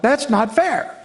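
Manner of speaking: lightly acted sibling complaint; imitating protesting kid. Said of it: "screams out".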